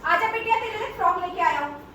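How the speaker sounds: lightly acted luring uncle; coaxing stranger. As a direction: imitate a man tempting a child with gifts. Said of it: "ऐसे करते हैं".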